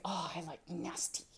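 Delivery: put-on a small child whispering a shy choice; whispered child's answer. Mother voicing her pupil's reply, whispering softly.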